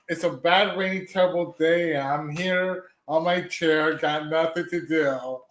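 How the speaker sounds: slow, dragged-out mock YouTuber intro; lightly hammed-up gloomy vlogger opening; mock sad streamer greeting; parody intro. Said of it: "I'm gonna do a little parody".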